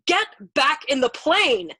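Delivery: slow, loud, high shout; desperate shouted order. A narrator's reading. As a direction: shout it word by word to drive him back. Screamed order at navigator.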